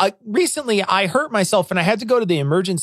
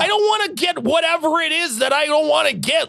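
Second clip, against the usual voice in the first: eager insistence; 7 semitones higher than usual. Retold or imitated. His eager reply to staff.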